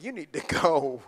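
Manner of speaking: imitating wife. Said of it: "She's like".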